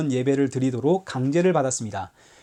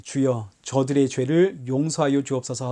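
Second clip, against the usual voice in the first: quiet prayer; 4 semitones lower, 3 dB quieter than usual. Retold or imitated. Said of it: "하고 기도하셨습니까?".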